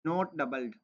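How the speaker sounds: reading a textbook line slowly to students; slow reading aloud. Shown as a demonstration. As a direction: read the rule out slowly, word by word. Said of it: "इसमें लिखा हुआ है".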